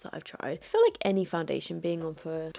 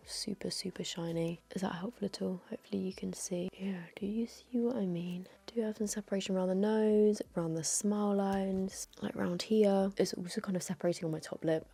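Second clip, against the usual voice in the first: whispering. Real, not acted. Whispered close-up inspection.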